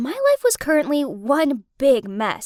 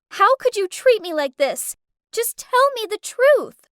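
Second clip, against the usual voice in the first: louder, higher accusing shout; 8 semitones higher, 5 dB louder than usual. Acted. Haley on the phone to her cheating boyfriend, shouting. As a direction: demand the truth at full voice. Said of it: "I shouted".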